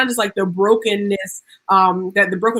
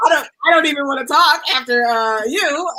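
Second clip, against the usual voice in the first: higher, excited shout; excited outburst; 4 semitones higher than usual. Real, not acted. Cheering the poet after her reading, excited shout. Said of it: "you came to shut it down".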